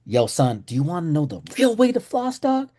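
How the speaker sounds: chill dentist bro. Retold or imitated. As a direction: talk like a laid-back buddy letting you in on a secret. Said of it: "He's like".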